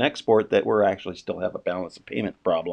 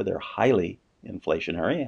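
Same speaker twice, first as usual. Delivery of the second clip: "highly" as the most prominent word; stress on highly; 3 semitones lower, 4 dB quieter than usual. Real, not acted. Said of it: "I wanna emphasize that word".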